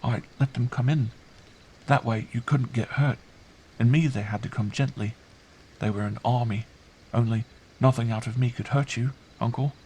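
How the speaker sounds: put-on high, artless child voice; earnest child. Girl explaining how she shielded uncle, earnest. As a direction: explain it solemnly as a small child.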